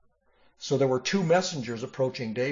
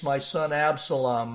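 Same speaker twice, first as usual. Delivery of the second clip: grieving cry; 4 semitones higher, 3 dB louder than usual. Acted. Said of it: "he cried".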